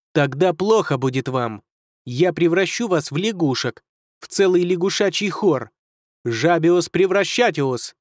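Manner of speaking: booming menacing sorcerer; roaring wizard. Acted. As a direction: roar out the curse like an evil wizard. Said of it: "колдун расхохотался и взревел".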